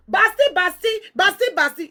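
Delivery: mock calling out; calling out a name. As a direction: call the name out to someone far off.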